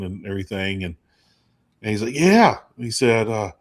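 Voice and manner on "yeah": 높고 큰 레드넥 아빠 목소리; hammed-up Southern dad, higher and louder; redneck dad. Redneck dad voiced in story.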